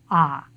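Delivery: 'ah' held as one flat vowel; single vowel ah. Shown as a demonstration. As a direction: say 'ah' with no glide. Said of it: "reduced to a single vowel".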